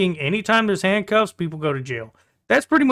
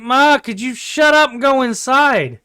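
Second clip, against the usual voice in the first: fed-up order; 6 semitones higher, 4 dB louder than usual. Retold or imitated. Telling drunk mom to go inside.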